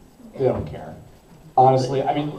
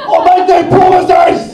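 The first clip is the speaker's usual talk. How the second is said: excited shout; 13 dB louder than usual. Real, not acted. Fan asks about accent.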